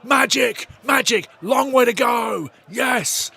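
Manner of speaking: shouting high with joy; goal celebration. Real, not acted. Streamer celebrating a goal with viewers, ecstatic shouting. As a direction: roar it out after the goal.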